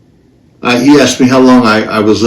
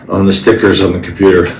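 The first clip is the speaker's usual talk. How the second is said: laughing. Real, not acted. Laughing at rabbit stickers.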